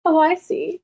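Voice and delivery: high, sobbing shout at the end; mock crying outburst. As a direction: wail it like a heartbroken cartoon girl throwing him out. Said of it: "she starts to cry".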